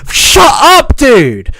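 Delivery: high, exasperated yell; real angry outburst; screaming. Real, not acted. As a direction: yell it to cut him off. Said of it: "I'm screaming".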